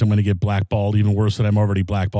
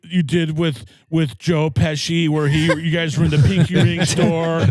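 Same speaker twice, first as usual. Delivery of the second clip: higher, lightly voiced starstruck fan; a hint of awed interviewer, pitched up; Chris Farley; 4 semitones higher than usual. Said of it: "I did a Chris Farley show skit".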